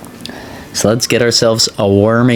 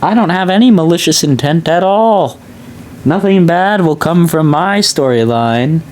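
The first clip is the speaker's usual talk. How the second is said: sinister lady; 9 semitones higher than usual. Retold or imitated. Streamer mocks the phone-call lady, high sly villain voice. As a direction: ham up a sly scheming woman. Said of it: "It's like".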